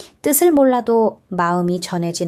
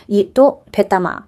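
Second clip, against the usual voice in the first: slow, louder Busan drawl on 됐다마; Busan dialect demo; 4 dB louder than usual. Shown as a demonstration. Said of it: "괜찮다는 뜻인데". (부산 사투리로 느리게)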